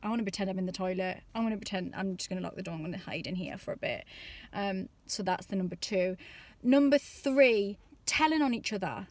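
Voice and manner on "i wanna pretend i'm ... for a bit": inner dread. Retold or imitated. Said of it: "I just think".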